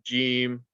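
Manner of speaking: "Jim" with an English J, vowel held; letter jim demonstration. Shown as a demonstration. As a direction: sound out each "Jim" separately, like English J. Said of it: "very similar to the letter J in English".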